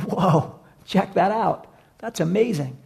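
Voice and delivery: slow, awed whoa; amazed. Retold or imitated. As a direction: let the wonder stretch out slowly. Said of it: "Others were amazed, going".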